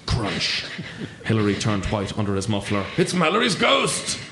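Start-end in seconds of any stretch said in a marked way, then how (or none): 3.0-4.2 high alarmed gasp of a name; frightened cry. Acted. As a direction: blurt it out in sudden fright. Climber cries out in fear.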